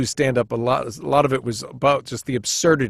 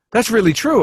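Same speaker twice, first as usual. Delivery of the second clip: amazed rep; 7 semitones higher, 4 dB louder than usual. Retold or imitated. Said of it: "He goes".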